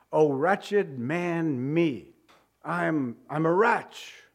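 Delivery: slow, drawn-out lament of self-disgust; wretched lament. Acted. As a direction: groan it out as a broken man. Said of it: "sums up Paul's state perfectly".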